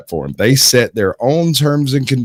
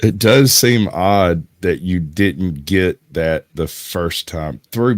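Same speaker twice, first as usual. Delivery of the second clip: slow, patronizing; 2 semitones lower, slower than usual. Acted. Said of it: "I can speak slower".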